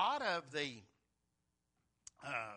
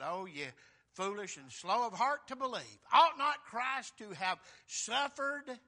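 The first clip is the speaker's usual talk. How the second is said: Jesus rebuking; 3 semitones higher, 5 dB louder than usual. Acted. Jesus rebukes the two disciples.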